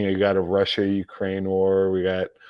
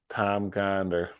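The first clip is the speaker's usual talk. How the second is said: softer, slower repeat of "Tom Gonder"; quiet fond repeat; 6 dB quieter, slower than usual. Real, not acted. Streamer quietly repeating his friend's name, fond and soft. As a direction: savor "Tom Gonder" to yourself.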